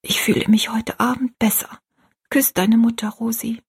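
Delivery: weak whisper. A narrator's reading. Sick mother whispering to her daughter Rosalie. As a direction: whisper it tenderly from a sickbed. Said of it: "flüsterte sie".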